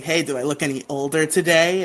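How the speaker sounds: a touch of sly playfulness; fishing slyly, in fun; sly, playful. Retold or imitated. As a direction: lightly mimic a playful hint. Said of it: "like, a little sly, playful tone".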